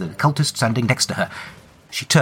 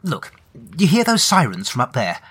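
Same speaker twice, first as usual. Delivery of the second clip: lightly voiced, higher, hurried bluff; a slightly higher, nervous official tone; nervous bluffing Mina; 5 semitones higher than usual.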